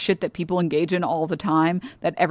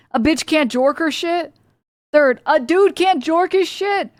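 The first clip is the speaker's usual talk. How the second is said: indignant; 7 semitones higher than usual. Real, not acted. Outraged rant.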